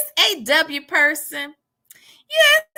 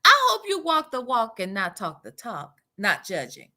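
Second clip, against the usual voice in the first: Sonya; 6 semitones lower than usual. Acted. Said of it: "her sentences are like this".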